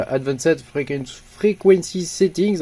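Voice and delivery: English menu name in a thick French accent; self-mocking French accent on English words; bad French-accented English. Real, not acted. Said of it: "avec mon super accent bien pourri".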